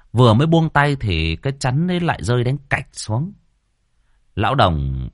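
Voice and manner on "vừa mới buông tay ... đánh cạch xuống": ordinary delivery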